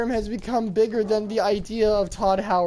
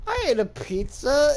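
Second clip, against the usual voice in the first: high-pitched mock-innocent answer; lightly voiced clueless prisoner, pitched up; innocent protest; 4 semitones higher than usual. Prisoner explaining himself to the security guards, mock-innocent.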